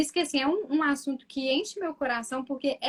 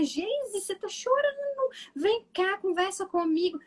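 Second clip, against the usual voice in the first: tender comforting voice; 7 semitones higher, slower than usual. Acted. Mother comforting crying adult, role-played.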